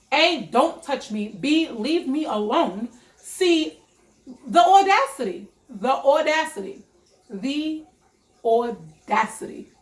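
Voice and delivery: indignant itemised telling-off, rising in pitch; big mad. Retold or imitated. Retelling to her boyfriend why she's big mad, indignant. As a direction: count off each grievance, building to an outraged peak. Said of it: "Yeah, I'm big mad".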